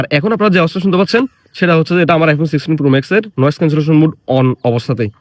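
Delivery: phone noise cancelling on; processed, slightly muffled phone mic; noise reduction artifacts. Shown as a demonstration.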